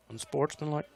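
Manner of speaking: faint and muffled through a window; distant official heard through glass; through a glass partition. Real, not acted. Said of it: "you can hear this official talking through the window".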